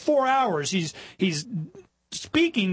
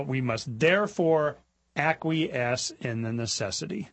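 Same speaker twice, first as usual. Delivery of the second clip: resigned quote; 4 semitones lower, slower than usual. Shown as a demonstration. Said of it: "We, we, you know".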